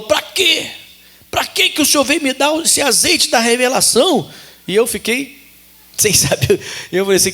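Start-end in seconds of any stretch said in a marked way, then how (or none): 0.0-4.3 high, tearful woman's voice, pleading and upset; retold crying woman. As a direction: imitate a sister crying as she complains to the pastor. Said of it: "entrou na igreja chorando e falou".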